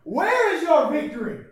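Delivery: high, loud, mock-triumphant cry at a funeral; mock triumphant mourner. Mourner at a funeral, mock-triumphant, laughing. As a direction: ham up a mourner gloating over death. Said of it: "walks in and goes".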